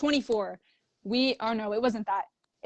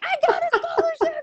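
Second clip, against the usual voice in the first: laughing; 3 dB louder than usual. Retold or imitated. Laughing news to mom.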